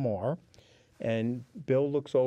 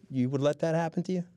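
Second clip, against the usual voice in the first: indignant challenge; 5 semitones higher, faster than usual. Real, not acted.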